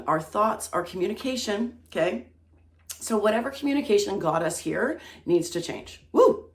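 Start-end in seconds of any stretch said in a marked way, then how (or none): 6.1-6.5 high, loud cheer of delight; gleeful tarot-reader woo; excited whoop. Real, not acted. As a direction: whoop like the card just made your day. Cheering at tarot card reveal.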